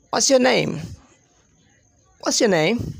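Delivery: "What's your name" run together as one word; connected speech. Shown as a demonstration. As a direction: link "What's your name" quickly without gaps. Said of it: "So that is a bit fast".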